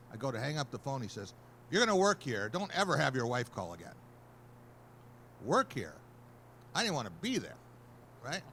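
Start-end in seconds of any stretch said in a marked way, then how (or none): 1.7-3.9 gruff order. Retold or imitated. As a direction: lay down the law to the new hire. Editor laying down the rule.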